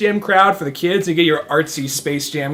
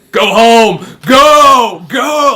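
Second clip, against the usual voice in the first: louder, higher barked order; hammed-up officer shouting him away; mock stern shout; 7 semitones higher, 11 dB louder, much slower than usual. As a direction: shoo him off like a cop. Cop chasing him off.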